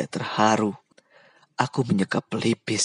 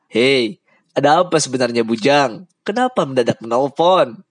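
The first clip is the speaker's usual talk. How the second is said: Lubai asking; 4 semitones higher, 4 dB louder than usual. Acted. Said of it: "Lubai bertanya".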